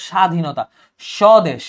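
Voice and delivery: স্বাধীনতা and স্বদেশ said with a plain 'sh' start and no b; silent b-phola. Shown as a demonstration. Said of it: "তুমি শুধু সটা উচ্চারণ করছো".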